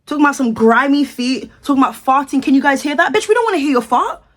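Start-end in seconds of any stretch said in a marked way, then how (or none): 3.1-4.2 higher, exasperated snap; disgusted outburst. Real, not acted. To a music artist on the clip, higher disgusted snap. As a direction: fling it at the screen in disgust.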